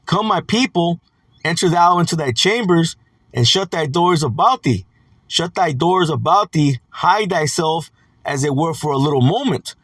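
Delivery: measured, deliberate verse reading; scripture reading. Acted. Preacher reads Isaiah's call to hide, measured scripture reading. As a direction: read it out phrase by phrase.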